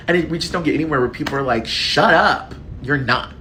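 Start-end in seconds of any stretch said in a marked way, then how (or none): 1.7-3.3 teasing mock outburst; mock dismissive shout. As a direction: snap it like waving off a friend. Quoting dismissive friends.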